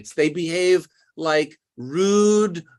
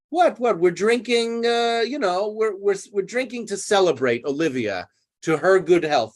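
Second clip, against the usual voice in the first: higher, hurried defensive excuses; making excuses; 4 semitones higher than usual. Retold or imitated. Toby excusing their drinking to Maria, higher and defensive. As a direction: talk fast to cover for him. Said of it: "creating excuses for him".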